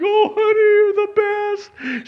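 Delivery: high, loud, gushing wife voice; imagined wife. Retold or imitated. The wife he expected, gushing high and loud. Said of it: "She's like".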